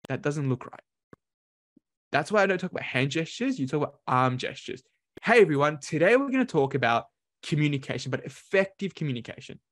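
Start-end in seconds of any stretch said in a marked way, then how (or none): 5.2-9.6 engaged presenter addressing everyone; engaging greeting. Shown as a demonstration. Coach demonstrating an effective opening to the audience, engaging. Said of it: "Do you see the difference?".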